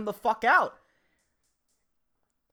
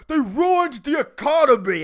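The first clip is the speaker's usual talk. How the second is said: louder, higher sneering mock voice; mocking complainer; 5 semitones higher, 6 dB louder than usual. Comic mocking people who blame boomers, higher sneering voice. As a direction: parrot the whiny accusation. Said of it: "You know".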